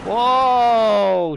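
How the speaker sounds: sudden loud high cry of alarm; startled whoa. Real, not acted. Sim racer yelping as the car slides, startled.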